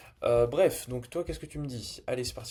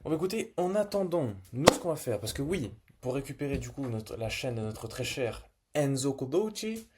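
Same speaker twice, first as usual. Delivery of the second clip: put-on Italian accent; 3 semitones higher, 5 dB louder than usual. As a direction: ham up an Italian accent to greet viewers. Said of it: "j'ai fait un accent italien".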